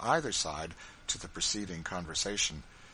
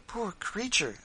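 high-pitched, pitying exclamation; compassionate; 12 semitones higher, 3 dB louder, slower than usual. Acted. Missus Bird over the fainted woman, compassionate. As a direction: pity her, voice lifted high. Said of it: "said Missus Bird compassionately".

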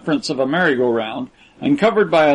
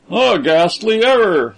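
higher and louder, sharp flash of anger; angrily; 5 semitones higher, 4 dB louder than usual. A narrator's reading. Braddock cutting off Percy about the teacher, angrily. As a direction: snap it out in irritation. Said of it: "said Braddock Washington angrily".

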